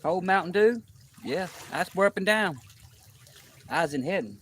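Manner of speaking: talking with mouth full; words round a mouthful of food. Real, not acted. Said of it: "to talk with your mouth full".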